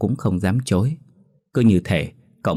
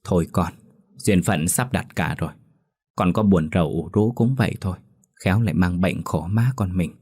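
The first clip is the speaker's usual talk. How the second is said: gently consoling. Acted. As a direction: comfort the grieving son tenderly. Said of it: "lựa lời an ủi".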